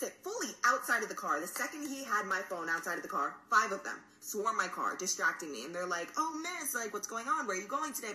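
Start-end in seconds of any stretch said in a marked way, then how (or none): 6.1-8.1 put-on higher-pitched, pestering kid voice; chattering kids. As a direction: imitate kids pestering a driver. Kids distracting her, retold.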